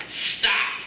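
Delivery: breathy whispered stop; whispered command. Retold or imitated. Voice of God stilling the sea, whispered. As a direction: hush the storm with a whisper. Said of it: "That voice just said".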